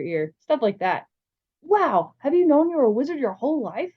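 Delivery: a hint of an excited kid; lightly voiced eager boy. New boy amazed by the magical world, lightly voiced eagerness.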